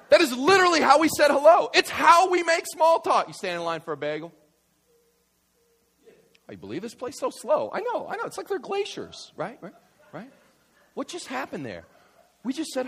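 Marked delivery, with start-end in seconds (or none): 0.1-3.3 high, loud, insistent punchline; loud, high-pitched insistence; emphatic exclamation. Real, not acted. Preacher exclaiming his punchline. 6.5-9.3 griping in line, climbing much higher; hammed-up high-pitched exasperation; mock complaining. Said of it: "is complaining".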